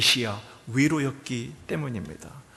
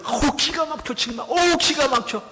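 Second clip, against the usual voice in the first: much higher, fed-up exclamation; exasperated sigh; 12 semitones higher, 6 dB louder than usual. Retold or imitated. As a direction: play someone at their wits' end. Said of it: "여러분 그러죠". (기가 막힌 듯 높은 목소리로)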